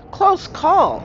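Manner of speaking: high, loud, smiling lieutenant; with a smile. A narrator's reading. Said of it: "says Lieutenant Jarvis with a smile".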